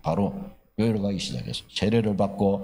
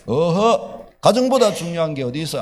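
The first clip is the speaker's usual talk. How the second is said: louder, scolding husband, half-acted; husband's scolding; 3 semitones higher, 6 dB louder than usual. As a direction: brush her off with a stern "tut". (아내를 나무라는 남편, 약간 큰 소리로 꾸짖듯이)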